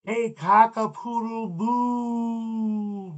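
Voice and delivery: slow, loud, high punchline; hammed-up punchline. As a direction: drag out the punchline for laughs. Punchline of a kids' joke.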